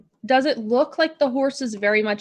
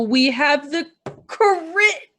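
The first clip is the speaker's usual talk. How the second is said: excited realization; 5 semitones higher, 4 dB louder, much slower than usual. Real, not acted. Realizing the crit deck.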